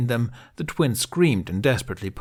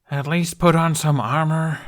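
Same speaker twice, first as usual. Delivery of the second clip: louder, begging tone; pleading; 7 semitones higher, 5 dB louder than usual. Acted. Hiccup pleading with the reckless twins. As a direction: beg them to be sensible. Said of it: "Hiccup pleaded".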